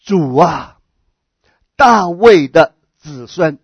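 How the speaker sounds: slow, drawn-out call to the Lord; retold cry of appeal, measured. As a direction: call out solemnly, stretching the words. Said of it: "就喊着说".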